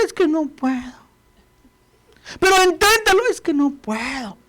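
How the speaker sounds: high, whining can't-do voice; whiny excuses. Acted. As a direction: play the self-pitying complainer. Dialogue with defeated believer.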